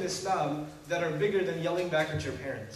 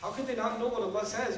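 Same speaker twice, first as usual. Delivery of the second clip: higher, incredulous questioning; shocked parent; 4 semitones higher than usual. Acted. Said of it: "And you're in shock".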